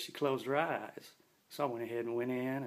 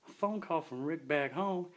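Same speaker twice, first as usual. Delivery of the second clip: slow disbelieving repeat, pitched higher; incredulous echo; 5 semitones higher than usual. Retold or imitated. K nine hearing Destiny mention Rick, slow and disbelieving. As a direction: echo her words back in disbelief, slowly. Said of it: "And I was like".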